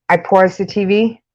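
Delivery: New York "pause", rounded like pawz; New York accent. Shown as a demonstration. Streamer giving another example word, New York accent. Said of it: "you hear my New York accent".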